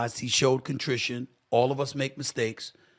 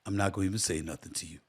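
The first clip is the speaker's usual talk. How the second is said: quoting Brunson; 6 semitones lower, 9 dB quieter, faster than usual. Retold or imitated. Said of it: "He said".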